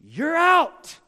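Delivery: loud, high umpire call; umpire shout. Retold or imitated. Umpire calling the boy out to the huddle, a loud shout. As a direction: bark the call at the player. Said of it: "He said".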